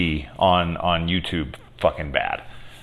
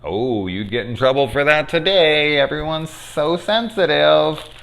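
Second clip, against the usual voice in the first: sarcastic aside; 9 semitones higher than usual. Retold or imitated. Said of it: "I was like".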